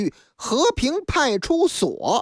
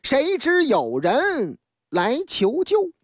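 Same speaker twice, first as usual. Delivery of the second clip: slow, measured verse delivery of the opening couplets; unhurried chanted story intro; storyteller's rhymed opening; 3 semitones higher, slower than usual. Acted. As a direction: recite the opening lines like a storyteller setting the scene.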